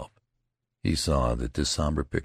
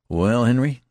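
hearty comrade; 8 semitones higher, 8 dB louder than usual. A narrator's reading. Comrade asks at campfire.

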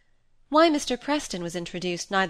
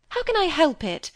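a touch of impatience, higher and louder; impatient; 9 semitones higher, 4 dB louder than usual. A narrator's reading. Cynthia brushing off Molly's question, mildly impatient. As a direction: snap it back, a little exasperated. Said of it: "said Cynthia impatiently".

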